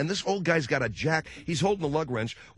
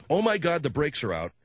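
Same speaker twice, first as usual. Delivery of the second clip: mock panic; 2 semitones higher than usual. Shown as a demonstration. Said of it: "in a kind of a way where they know it's a joke".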